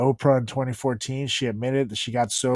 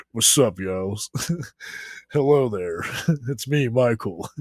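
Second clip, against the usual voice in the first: low speaking voice. Shown as a demonstration. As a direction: lower casual voice. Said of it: "talked more like this".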